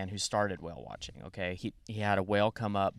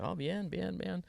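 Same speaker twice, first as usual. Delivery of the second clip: high-pitched, eager little reply; imitating himself fumbling politely in Spanish; flustered beginner's Spanish; 10 semitones higher, slower than usual. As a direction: bluff through basic Spanish in a high voice. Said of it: "I don't speak that good of Spanish".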